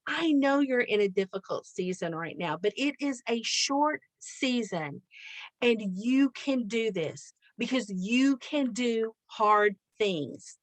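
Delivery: slow, deliberate retold pep talk; encouraging coaching. Mother calls overwhelmed daughter back, encouraging her. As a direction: reassure gently, giving each word room. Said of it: "this great coaching session".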